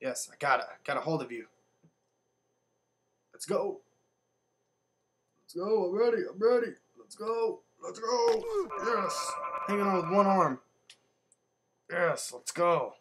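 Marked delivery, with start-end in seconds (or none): 3.3-12.9 high, rising eager cheers; excited hype. Real, not acted. Player hanging on with one arm, high excited hype. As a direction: pitch climbing higher with each eager shout. Hyped while hanging on in game.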